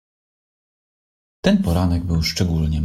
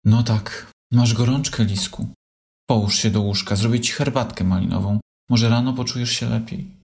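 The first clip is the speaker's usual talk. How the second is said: mild worry; 2 semitones higher than usual. Acted. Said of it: "z niepokojem w głosie oznajmiła".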